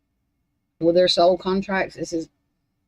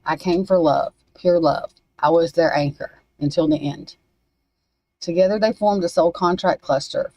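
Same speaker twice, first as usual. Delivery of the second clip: reading a message. Acted. Reads channeled message aloud.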